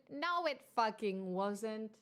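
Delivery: slow, firm, no-nonsense denial; flat rebuttal. Real, not acted. Streamer correcting chat's Jane Austen claim, firm and slow. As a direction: shut the wrong claim down slowly.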